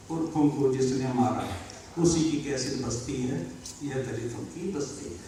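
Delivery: low, soft poem refrain; quiet, measured closing couplet; subdued verse recitation. Acted. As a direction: let the verse drop to a hush.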